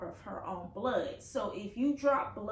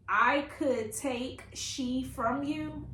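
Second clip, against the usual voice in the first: quoted question; 3 semitones higher, slower than usual. Retold or imitated. Reader shows viewers the mom's odd question, slow quote. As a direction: slowly read quote, little questioning lift. Reads puzzling book quote aloud.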